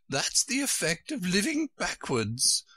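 high, kindly storybook queen. A narrator's reading. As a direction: explain it kindly in a high character voice. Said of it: "the Queen said kindly".

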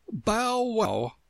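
high little flower voice; daisy crying out. A narrator's reading. A daisy calling out to Alice, high-pitched cry. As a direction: pipe it up high. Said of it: "cried a daisy".

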